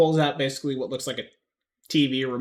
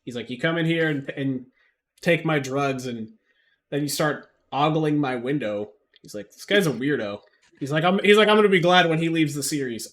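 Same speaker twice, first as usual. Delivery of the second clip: raised, higher-pitched NPC rant; loud, higher grumpy shopkeeper voice; 6 semitones higher, 9 dB louder than usual. Acted. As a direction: bluster at the player like a grumpy dealer. GM voices ranting NPC Morris.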